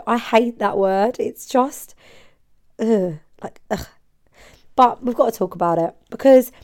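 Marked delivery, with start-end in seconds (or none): 2.8-3.9 disgusted throaty noise; disgusted ugh. Real, not acted. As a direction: groan of disgust. Disgusted by the word farts.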